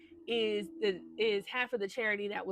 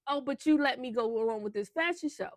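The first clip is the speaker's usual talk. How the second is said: indignant outburst; 4 semitones higher, 5 dB louder than usual. Retold or imitated. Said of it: "She was like".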